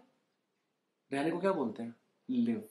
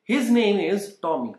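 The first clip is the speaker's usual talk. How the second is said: very slow, spaced out for learners; teacher saying the line for students to copy, very slow; slow model sentence; 3 semitones higher, much slower than usual. Shown as a demonstration.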